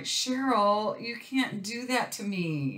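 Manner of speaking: high, pleading protest; begging her friend not to tempt her; mock pleading cry. Pleading with the breeder, high and mock desperate.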